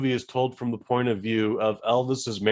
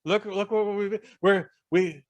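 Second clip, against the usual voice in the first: high-voiced pleading manager impression; put-on high voice of a scheming manager; Colonel Tom Parker; 8 semitones higher, 4 dB louder than usual. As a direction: pitch it high, wheedling the star. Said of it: "he does have a high voice where it goes".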